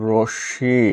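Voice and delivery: রশ্মি said as "roshshi"; careful রশ্মি, "rosh-shi"; correct pronunciation. Shown as a demonstration. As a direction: double sh in রশ্মি, silent m. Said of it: "শুদ্ধ উচ্চারণ কোনটি".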